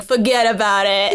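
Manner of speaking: imitated Italian New York mob accent; Italian New Yorker. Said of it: "like an Italian New Yorker".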